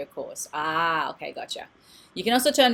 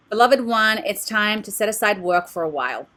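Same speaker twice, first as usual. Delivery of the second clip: louder, projected oracle reading; card message read aloud; 3 semitones higher, 7 dB louder than usual. Acted. Card reader delivering a message to a client, reading aloud. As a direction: proclaim the message to the listener.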